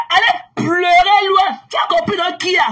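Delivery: lancé plus fort et plus haut, lentement; chasse-les d'un cri méprisant; crié avec mépris. Real, not acted. Telling critics to go away. (cri lent et méprisant)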